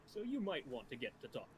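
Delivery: talking while eating soup. Real, not acted. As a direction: mouth full of soup. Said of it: "Sorry, I'm eating soup at the same time".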